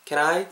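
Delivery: "can I" run together lightly, "kenai"; natural linked pronunciation. Shown as a demonstration. Teacher repeats the model for learners, "can I" linked smoothly. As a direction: link "can I" with one simple n. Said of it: "이렇게 하시면 될 것 같고요".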